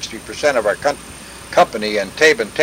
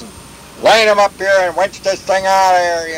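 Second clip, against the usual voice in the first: higher-pitched mock holler; retold holler; 6 semitones higher than usual. Officer directs the winching, mild retold holler. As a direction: imitate an officer calling out orders. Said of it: "he, he hollered".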